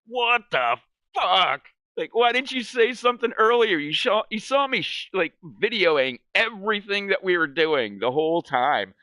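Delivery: high, disbelieving rant; incredulous complaint. Retold or imitated. Vlogger ranting at the guide who never filmed him, high and incredulous. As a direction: act baffled he never offered.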